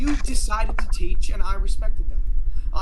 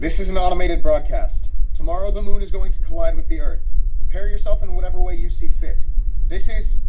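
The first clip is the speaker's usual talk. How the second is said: flat robotic radio voice; 4 dB louder than usual. Acted. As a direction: speak like a robot voice. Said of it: "a robotic voice comes from the radio".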